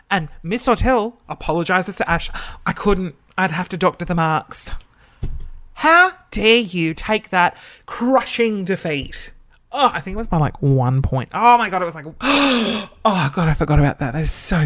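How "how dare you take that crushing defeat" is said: slow, emphatic outrage; mock indignation. Former student relishing the rival's defeat, slow mock indignation. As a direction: draw out each word with relish.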